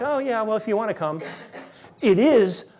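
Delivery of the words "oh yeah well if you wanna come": lightly mocking, half-hearted invite; casual, offhand invitation. Shown as a demonstration. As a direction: say it like a shrug, no urgency. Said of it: "It's not like".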